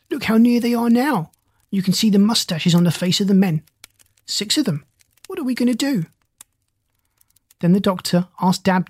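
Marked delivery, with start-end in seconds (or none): 0.1-6.1 panicked pig. Acted. Pig panics as pirates close in.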